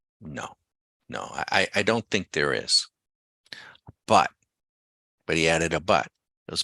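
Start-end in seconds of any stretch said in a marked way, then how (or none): 0.2-2.9 very hushed, soft, under the breath. Retelling how a trader answered a question about a holy grail: imitating a very hushed tone. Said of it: "in a very hushed tone".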